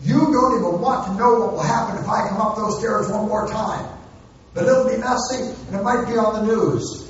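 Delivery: half-hearted yelled warning up the stairs; mock hollered threat. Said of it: "hollering threats up the stairs".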